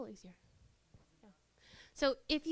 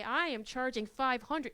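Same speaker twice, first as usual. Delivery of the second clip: stiff pouting demand. Shown as a demonstration. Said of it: "stand up and pout and say".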